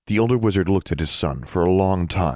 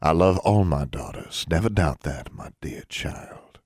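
tender. Acted. Father tender to daughter.

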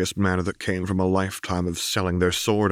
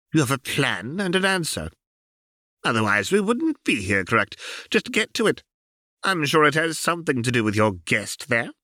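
put-on higher, testy old man losing patience; impatient old baron; 5 semitones higher than usual. A narrator's reading. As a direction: grumble like a baron too old for this.

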